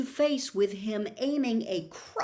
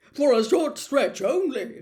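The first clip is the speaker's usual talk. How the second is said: evasive; 5 semitones higher, 9 dB louder than usual. Acted. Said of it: "not meeting Hagrid's eyes".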